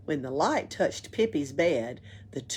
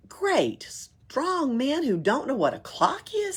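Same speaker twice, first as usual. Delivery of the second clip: mocking; 8 semitones higher, slower than usual. Pippi mocking tramps.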